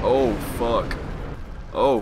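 loud frustrated cursing; raging gamer. Real, not acted. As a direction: yell it out in gaming rage. Gamer gets hit, curses loudly.

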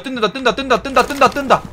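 excited. Real, not acted. Spotting something on camera.

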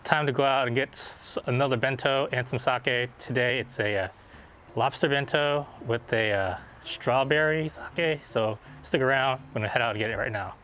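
muffled behind cloth mask; covered mouth speech; through a face mask. Real, not acted. Seen 0: Blue surgical mask covers mouth and nose throughout speech; references unmasked.

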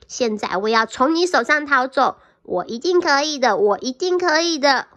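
a mild mock yell of a boastful cookie; loud taunt. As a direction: shout it right at the fox. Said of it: "用很大声、很大声音说".

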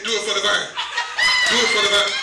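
low, insistent tempter's voice; tempting inner voice. Acted. Preacher's own mind tempting him, in a low egging-on voice. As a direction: egg him on in a deep voice.

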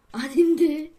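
unvoiced whisper. Real, not acted. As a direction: whisper it to yourself. Whispered denial while fixing the game.

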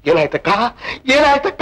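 rising into a tearful cry. Acted. Tenant reenacts calling his dying sister, crying. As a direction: call to her, breaking into sobs. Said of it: "ಅಳ್ಬೇಡ ತಮ್ಮು".

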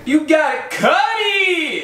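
drawn-out shout to the camera; emphatic shout. Real, not acted. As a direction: hammer the instruction home. Emphatic cooking instruction shout.

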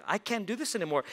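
a touch of weary frustration; fed up. Acted. Boy stuck doing his sister's chores, mildly fed up. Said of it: "He got just fed up".

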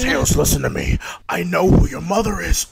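loud, high gloating villain voice; villain taunt. Acted. Villain taunting Tails about his mother, loud and gloating. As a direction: gloat over him like a cartoon villain.

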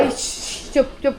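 hushed shushing as the dog; a soft "shh", then short hushing words; lightly voiced dog. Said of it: "टायगर म्हणतोय".

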